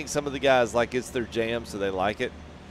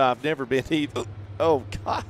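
hiccuping while talking; fighting back hiccups; suppressing hiccups; 2 semitones higher than usual. Real, not acted. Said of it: "Sorry, I've got the hiccups".

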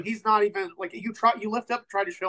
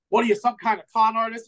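sneering bar owner; 3 semitones higher, 5 dB louder than usual. Acted. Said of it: "looks at you and sneers".

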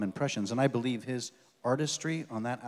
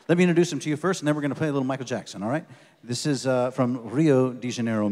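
louder, building up the guest; stage introduction; 7 dB louder than usual. Real, not acted. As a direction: announce him to the crowd. Introducing guitarist to audience.

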